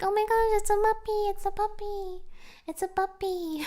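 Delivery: excited gushing at any animal; repeated puppy squeal. Retold or imitated. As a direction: squeal it again and again. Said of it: "I'll be like".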